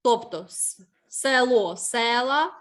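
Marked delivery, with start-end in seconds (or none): 1.1-1.8 "село" stressed on the last syllable; stress on final О. Shown as a demonstration. Teacher showing an unstressed root vowel, "село" stressed at the end. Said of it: "ненаголошений у корені слова". 1.8-2.5 "села" stressed on the first syllable; stress on root Е. Shown as a demonstration. Teacher showing a check word, "села" with stressed Е. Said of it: "щоб став наголошеним".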